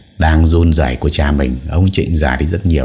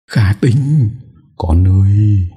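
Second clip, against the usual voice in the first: higher, tearful call across the room; mild calling out in joy; crying out; 4 semitones higher, much slower than usual. Acted. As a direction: call her name through tears. Parents cry out at reunion.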